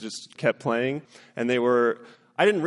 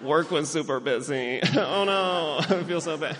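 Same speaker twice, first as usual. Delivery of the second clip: laughing parent; 4 semitones higher than usual. Retold or imitated. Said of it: "And I'm like".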